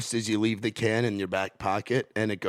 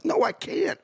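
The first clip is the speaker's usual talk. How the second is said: squeaky high mock no; a mock high-pitched refusal; flat refusal; slower than usual. Refusing hagglers at merch table.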